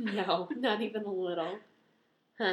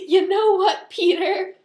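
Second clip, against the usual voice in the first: high, loud, laughing indignation; mock-angry telling-off; 9 semitones higher, 9 dB louder, slower than usual. Telling absent Peter off over his remark, mock-angry. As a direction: let him have it, half in fun.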